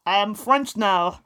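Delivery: loud, hammed-up French accent; bad French accent. Lady Attercop announces that she is French now, bad French accent. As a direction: proclaim it in an awful fake French accent. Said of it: "A bad French ac".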